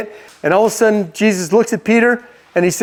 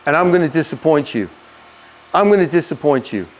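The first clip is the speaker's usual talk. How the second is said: earnest, subdued plea; understated heartfelt admission; honest confession; 2 semitones lower than usual. Acted. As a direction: confess it gravely, with measured pauses. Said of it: "he gets honest with him".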